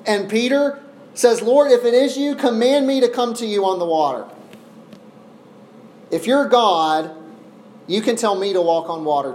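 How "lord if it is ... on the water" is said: raised, higher-pitched appeal; earnest plea. Acted. Peter to Jesus from the boat, pleading earnestly. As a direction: call up boldly as Peter the disciple.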